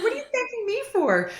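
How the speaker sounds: high, emotional protest on the verge of tears; tearful disbelief. Retold or imitated. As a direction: ask it while choking up, unable to believe it. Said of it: "I was, like, so emotional".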